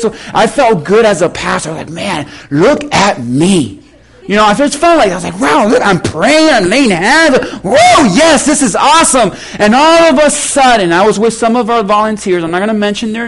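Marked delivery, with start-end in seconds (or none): 1.9-3.8 slow, low self-admiring aside; self-satisfied. Retold or imitated. Pastor admiring himself as he prays, self-satisfied. Acted proud thought to himself. 5.4-9.3 mock-excited inner cheer; gleeful self-congratulation. Pastor thrilled to be praying for people, gleeful. Acts out his spiritual high.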